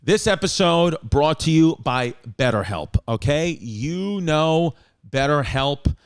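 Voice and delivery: measured podcast sponsor read. Real, not acted. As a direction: open deliberately, then pitch it in an easy, confiding way. Reads second sponsor ad.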